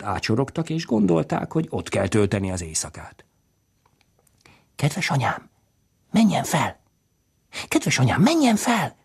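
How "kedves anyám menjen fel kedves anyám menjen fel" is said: urgent pleading whisper rising high; frightened whisper. Acted. Csöre whispering to mother to climb up, frightened plea. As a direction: beg mother in a scared whisper. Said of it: "suttogta Csöre".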